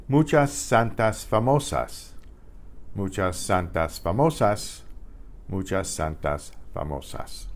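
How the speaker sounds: "muchas santas famosas" with clear pure A vowels; every A open and even; Spanish dictation. Shown as a demonstration. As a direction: dictation read for the class. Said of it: "You should be able to write those phrases".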